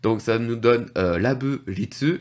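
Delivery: normal talking voice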